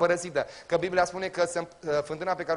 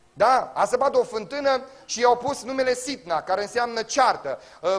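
loud, high, driving sermon voice; full-force preaching; 6 semitones higher, 5 dB louder than usual. Acted. Preacher rousing the congregation, loud and high.

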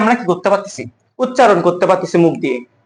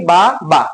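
"বা, বা" as two separate syllables, pause between. Shown as a demonstration. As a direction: break "বা, বা" into two breaths. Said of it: "পারতেছি না".

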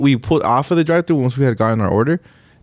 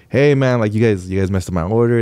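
understated, polite retold complaint; still nice; 5 semitones lower than usual. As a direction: bring it up gently, no bite. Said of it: "he was still nice".

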